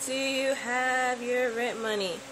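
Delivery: slow, patient question to the dog; slow repeat. Shown as a demonstration.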